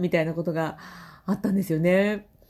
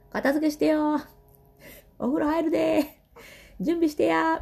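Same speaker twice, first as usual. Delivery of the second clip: nagging mom; 8 semitones higher than usual. Retold or imitated. Old habit of nagging kids.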